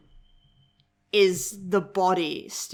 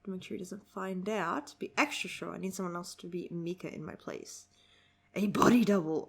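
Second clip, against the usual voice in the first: reading dialogue; 4 dB quieter than usual. Acted. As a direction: read the lines quietly and evenly.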